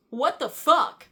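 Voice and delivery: mock exclamation. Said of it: "he just looks at her and goes".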